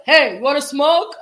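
a hint of the pushy girl offering; imitating her. Retelling a girl offering a smoke, loud mock voice. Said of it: "she was like".

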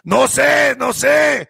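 high, yelped denial; mock protest. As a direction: imitate a flustered guy denying everything. Car washer protests ignorance.

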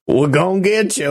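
imitating the caller's threat for laughs; mock menacing threat. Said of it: "it's a little over the top".

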